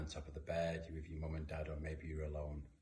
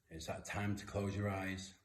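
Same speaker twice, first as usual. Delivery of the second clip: guided reflection. Acted. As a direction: guide children calmly with eyes closed. Leads kids through eyes-closed reflection.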